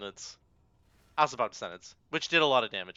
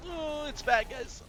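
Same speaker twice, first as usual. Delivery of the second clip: mock self-scolding; 13 semitones higher, 4 dB quieter, slower than usual. Real, not acted. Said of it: "I pressed Chain Lightning".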